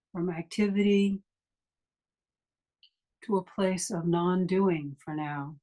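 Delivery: unhurried meditation guide with long pauses; guided meditation. Acted. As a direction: ease listeners into stillness, leaving long silences between phrases.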